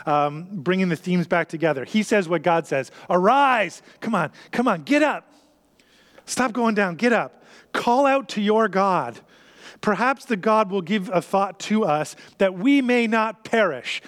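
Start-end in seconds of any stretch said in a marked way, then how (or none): 3.1-14.0 urgent wake-up call. Acted. Captain urging Jonah up.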